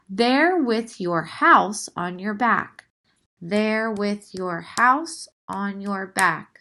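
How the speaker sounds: slow, measured poem reading; reading a haiku. Shown as a demonstration. Teacher reads the haiku's second line. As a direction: read there with your house on your back slowly. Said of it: "let's take a look at this example".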